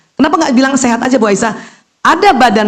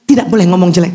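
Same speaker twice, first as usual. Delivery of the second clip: mock patient; 3 semitones lower, faster than usual. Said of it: "Karena ibu bilang".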